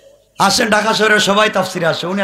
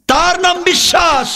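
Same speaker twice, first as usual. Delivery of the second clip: high, ringing preacher's shout; full-force pulpit cry; emphatic proclamation; 13 semitones higher, 3 dB louder than usual. Real, not acted. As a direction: declare it on a high held pitch. Same line repeated at full force.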